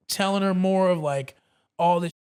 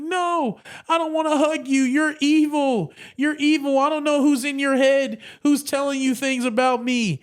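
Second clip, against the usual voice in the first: put-on irate girlfriend; 7 semitones higher than usual. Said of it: "She's screaming. She's yelling".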